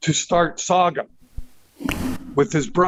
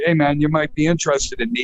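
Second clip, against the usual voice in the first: mock polite pitch; 2 semitones lower, faster than usual. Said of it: "my come on was not like, like, normal".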